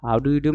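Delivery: "How do you do" word by word; careful, complete "How do you do"; full form. Shown as a demonstration. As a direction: keep all four words in "How do you do". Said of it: "মানে howdy".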